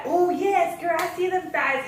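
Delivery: mimicked girl cheering on her friend; imitated hyped-up agreement. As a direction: hype her up from the car. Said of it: "And then she's like".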